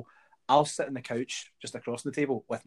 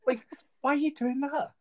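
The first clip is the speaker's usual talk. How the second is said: laughing; 13 semitones higher, 3 dB louder than usual. Real, not acted. Mocking cinema drinkers, laughing.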